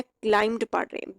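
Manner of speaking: क्लाइंब्ड said as klaimd, no b sound; silent b in climbed. Shown as a demonstration. Teacher explaining the past form क्लाइंब्ड. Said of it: "बी यहाँ पे भी pronounce नहीं करना".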